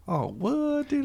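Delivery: high, squeaky voice of disbelief; mock shocked high voice. Telling a friend how he reacted, in a squeaky shocked voice. Acting out his own reaction.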